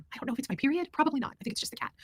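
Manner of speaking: crying. Real, not acted. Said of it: "'cause I'm crying".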